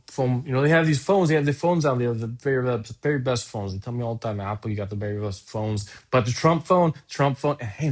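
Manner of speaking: lightly voiced Trump, boastful and rambling; a hint of Trump bragging, stressing "very"; Trump inflection. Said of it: "with enough the Trump inflection".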